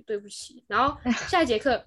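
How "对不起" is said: mock reluctant sorry, softer; half-hearted imitated sorry; grudging apology. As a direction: mutter it like a kid forced to apologize. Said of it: "心甘情不愿".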